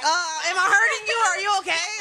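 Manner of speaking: a hint of a careful lover; gentle concerned voice. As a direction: play the worried partner checking in. Acting out partner during sex.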